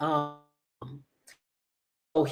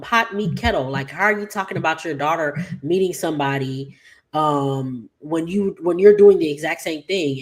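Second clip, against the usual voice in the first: calling her out; 3 dB louder than usual. Retold or imitated. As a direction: throw her hypocrisy back at her. Friend calls out hypocrisy.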